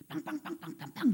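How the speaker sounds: rapid string of spoken car honks; honking horn imitation. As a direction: mimic someone honking insistently. (자동차 경적 소리 흉내)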